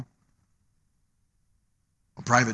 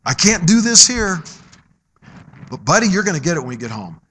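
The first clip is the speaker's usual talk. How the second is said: lowered voice, a father promising punishment later; father's hushed warning. Retold or imitated. Father warning son in Walmart.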